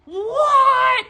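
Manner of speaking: high, loud astonished yelp; shocked, can't believe it; real burst of surprise; surprised. Real, not acted. Reacting to the glowing candle.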